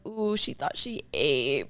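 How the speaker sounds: low, slow, drawn-out jeer; mock-judgy commenters. Podcaster imitating people reacting to her outfit, mock-judgy. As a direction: imitate a catty online critic, dragging it out. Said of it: "people are like".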